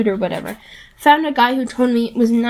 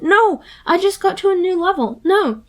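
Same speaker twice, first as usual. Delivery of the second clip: mock shout; 7 semitones higher than usual. A narrator's reading. Grover protesting as he is dragged away. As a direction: wail like a kid torn from a game. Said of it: "as he shouted".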